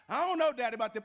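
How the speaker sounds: a hint of a doubtful child; little son's voice. A hint of son telling Daddy he's unsure. Son answering father at breakfast.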